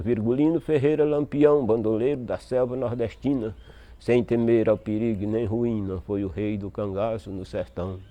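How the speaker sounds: measured cordel verse; poem recital. Acted. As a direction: recite it like a sung stanza. (recitação de verso de cantoria)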